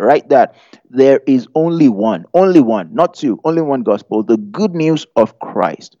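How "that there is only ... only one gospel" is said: "only" punched on each repeat, "not" set against it; preaching stress. Shown as a demonstration. Preacher rallying the congregation, stressing "only". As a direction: drive "only one" home, beat by beat. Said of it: "You need to help me preach that".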